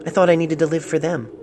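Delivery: a touch lighter, tender reading; lightly voiced letter writer. Doctor reads the patient's love letter aloud, lightly voiced. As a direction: read the love letter as its young writer would say it. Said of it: "lightening his pitch".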